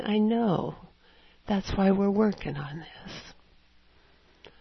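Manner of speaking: gentle, unhurried reassurance; acted kindly voice of God. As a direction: reassure tenderly, slowing to the end. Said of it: "you will hear the kindliest".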